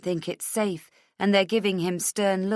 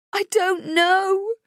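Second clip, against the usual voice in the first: long, loud, high wail; slow, anguished high cry; 14 semitones higher, 7 dB louder, slower than usual. Acted. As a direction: wail it helplessly, stretching the words. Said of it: "she wails".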